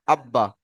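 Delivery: abba with the b sounded twice; doubled b. Shown as a demonstration. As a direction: join ab to ba with a doubled b. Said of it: "সেই অক্ষরটিকে আমরা দুবার পড়ব".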